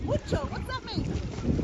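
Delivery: in ice cold water. Real, not acted. In cold pool.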